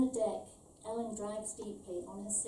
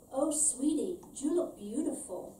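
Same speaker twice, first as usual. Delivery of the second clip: higher, louder gruff Scarface-style gangster voice; Al Pacino voice; 5 semitones higher, 6 dB louder than usual. A narrator's reading. Bald customer compliments Ellen in a Pacino voice. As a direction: lean into a Pacino-in-Scarface delivery. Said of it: "She speaks like Al Pacino in Scarface".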